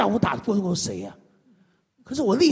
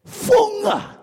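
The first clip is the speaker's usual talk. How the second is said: mock exclaim; 14 semitones higher, 4 dB louder than usual. Mocks the crowd's reaction.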